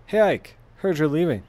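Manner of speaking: cheerful high greeting. Acted. Reading a cheerful character greeting.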